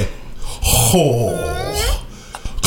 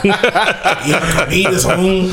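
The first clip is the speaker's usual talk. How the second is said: a hint of a Hispanic accent, a bit higher; 3 semitones higher than usual. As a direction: invite him over in a light Hispanic accent. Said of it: "Is there ever a time you don't do accents".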